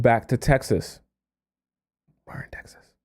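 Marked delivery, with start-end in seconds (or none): 2.3-2.9 quick whispered aside to the camera. Real, not acted. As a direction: whisper it as a side note. Aside while reading letter.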